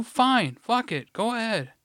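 high-pitched, heated dare; defiant retort. Retold or imitated. Retold worker daring coworker to report him, defiant. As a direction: throw the threat right back.

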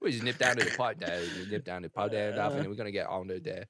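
put-on rambling, half-mumbled English accent; mock British accent. Co-hosts say he sounds drunk, slurry British impression. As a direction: babble like a tipsy Englishman. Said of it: "he's Russell Brand".

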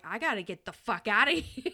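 loud mock alarm breaking into a laugh; half-laughing imitation of panicked friends; freaking out. Voicing friends fleeing the screaming speakers, mock freaked out. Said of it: "they're freaking out".

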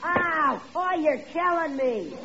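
high, put-on cries of pain; hammed-up pleading yelps; faked pain yells. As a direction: pretend to take a beating. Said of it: "you yell kind of loud".

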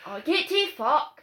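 slow Scottish "get to fuck", drawn out; Scottish tagline. Acted. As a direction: stretch out the Scottish tagline slowly. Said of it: "That's my wee tagline".

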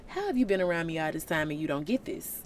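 low-pitched, mildly exasperated sarcasm; sarcastic Jesus. Retold or imitated. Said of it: "that's his tone".

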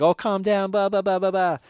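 dismissive hush. Retold or imitated. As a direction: wave off the fuss. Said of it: "was just like".

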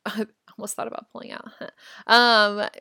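laughing through the words. Real, not acted. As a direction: giggle while saying it. Laughing while admitting near pull-out.

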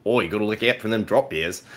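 amateur Australian accent; limited, put-on Australian twang. Shown as a demonstration. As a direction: have a rough go at Australian. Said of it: "with an Australian accent".

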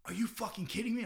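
high, hushed disbelief; stifled mock outrage; incredulous. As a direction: imitate a stunned friend in a soft, high squeak. Friend's retold disbelief after whispered secret.

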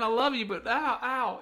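mock wince, high; ow, ow, playful pained; hissing in pain. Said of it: "it sounds like the jackhammer's as big as you".

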